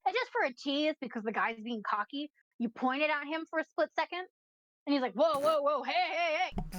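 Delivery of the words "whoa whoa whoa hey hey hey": quick, raised cry of mild alarm; startled stall owner warding someone off; alarmed protest. Acted. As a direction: stop someone in a hurry. Game master voices alarmed stall owner.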